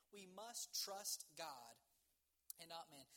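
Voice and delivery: firm, drawn-out declaration with a long pause midway; measured, insistent preaching; slow, emphatic repeat. Real, not acted. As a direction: drive each word home slowly. Key point repeated for emphasis.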